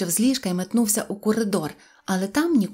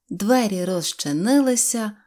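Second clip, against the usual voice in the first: usual speaking voice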